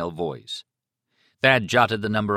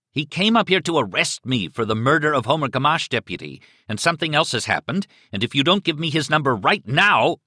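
louder and higher, building to a cry; rising frantic shout; 7 semitones higher, 5 dB louder than usual. A narrator's reading. Thad yelling at the deputy, building to a frantic cry. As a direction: let the panic break loose at the end. Thad loses his temper.

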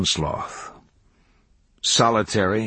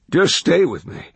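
put-on much higher old backwoods voice; raised rustic plea; hermit urging; 10 semitones higher, 4 dB louder than usual. A narrator's reading. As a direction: urge the kid as a lonely hermit. Hermit urges kid to stay.

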